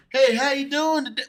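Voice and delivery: hammed-up, high-pitched hail; mock greeting. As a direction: exaggerate a greeting you would never use. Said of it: "this is how we talk. We ain't like".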